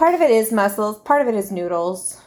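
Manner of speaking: matter-of-fact, offhand delivery; said as a throwaway, no big deal; nonchalant. Real, not acted. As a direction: toss it off casually. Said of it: "you just said that so nonchalantly".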